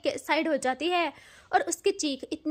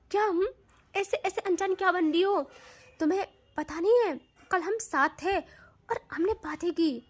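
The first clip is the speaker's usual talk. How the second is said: angry confrontation; 3 semitones higher than usual. Acted. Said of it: "उसे गुस्सा भी आता है".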